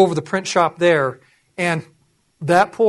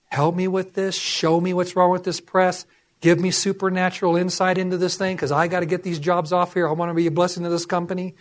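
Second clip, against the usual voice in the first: retold prayer; 3 dB quieter than usual. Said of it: "walking around the press praying".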